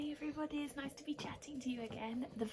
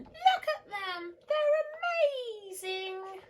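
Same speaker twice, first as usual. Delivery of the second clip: high, loud and thrilled; excited slug; 12 semitones higher, 12 dB louder, slower than usual. Acted. Norman gazing at the snails, high excited gushing. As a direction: gush at the wonderful snails. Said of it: "said Norman".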